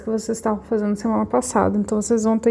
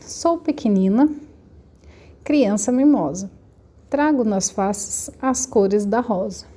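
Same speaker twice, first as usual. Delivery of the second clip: reading a verse aloud; slower than usual. Shown as a demonstration. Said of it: "Leia a quadrinha".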